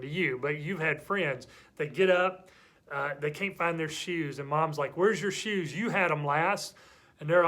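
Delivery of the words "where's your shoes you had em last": scolding mom. Acted. Mom to child over lost shoes, scolding. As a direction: mildly scold like a fed-up mom.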